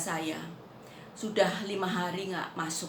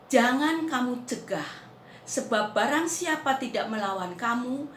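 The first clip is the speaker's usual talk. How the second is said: declaimed scripture; 6 semitones higher, 5 dB louder than usual. Retold or imitated. Preacher declaims a saying of Jesus.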